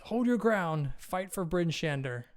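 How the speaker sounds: rally the troops with a restrained shout; acted battle cry, held back; mild rallying yell. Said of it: "she yells to her guards".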